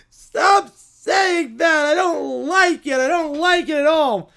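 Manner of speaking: upset whine. Acted. Bear puppet upset at taunting.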